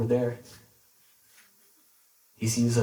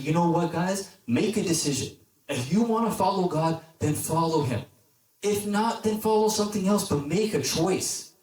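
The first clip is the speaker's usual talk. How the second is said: fed-up ultimatum, mostly higher pitched; exasperated Elijah; 3 semitones higher than usual. Acted. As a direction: lay down an exasperated ultimatum to the group. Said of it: "giving him a headache".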